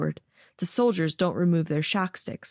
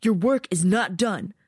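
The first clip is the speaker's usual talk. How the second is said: low voice; 3 semitones higher than usual. Acted. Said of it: "his voice low".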